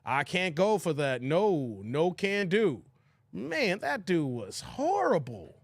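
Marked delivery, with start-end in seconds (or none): 0.1-2.8 lower, dismissive refusal. Retold or imitated. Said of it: "I had to pull an audible, like".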